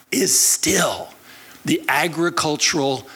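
voiceless hush on is still; whispered aside. Real, not acted. Pastor marvelling at Israel's farming, in a whisper. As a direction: whisper it in awe.

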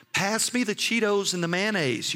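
imitating buddies making fun; mock teasing. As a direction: call it out to tease a sick friend. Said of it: "they started making fun".

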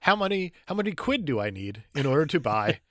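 put-on British niece; hammed-up British questioning; mock British accent. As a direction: lay on the Britishisms in a fake accent. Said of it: "in my British accent".

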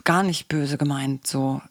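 smooth it over half-heartedly; understated mock reassurance; glossing over. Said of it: "das ist Schönreden".

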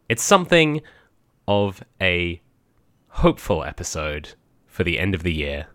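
measured, projected host read; scripted show-opener delivery; podcast intro. Acted. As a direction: present the episode to listeners, key words punched.

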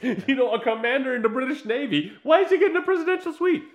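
high, loud laughing disbelief; incredulous. Retold or imitated. Host mocking Bond's hotel welcome, incredulous and loud. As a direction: rant it in mock outrage. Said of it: "And I'm like".

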